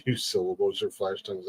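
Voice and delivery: slurring through a numb face; words mushed by a numb mouth. Real, not acted. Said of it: "one side of my face is numb".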